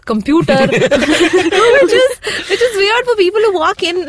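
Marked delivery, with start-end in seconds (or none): 2.5-4.1 laughing. Real, not acted. Laughing at accent story.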